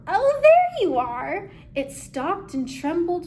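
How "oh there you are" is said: snarled. Acted. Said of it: "The thing then snarled".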